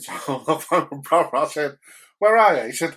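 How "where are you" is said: demanding call. Retold or imitated. Phoning brother, demanding.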